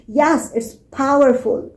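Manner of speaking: POWERFUL with a firm POW; stress on POWERFUL. Shown as a demonstration. Teacher giving a word importance, stressed POWERFUL. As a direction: lean on the first syllable of POWERFUL. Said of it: "Here I'm using stress".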